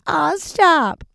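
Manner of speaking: high, coy brush-off. Retold or imitated. Answering her friends' bragging, high and coy. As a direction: bat the praise away while loving it.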